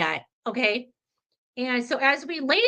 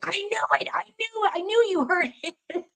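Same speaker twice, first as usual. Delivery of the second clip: much higher, mock-outraged vindication without raising volume; imitating triumphant daughter; 8 semitones higher than usual. Retold daughter finally hearing mom's confession, high-pitched vindication. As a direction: squeal it like a vindicated daughter, ending in a laugh.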